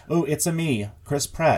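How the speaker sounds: mockingly underplay Mario's catchphrase; mock normal-voiced Mario. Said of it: "talk in his normal voice".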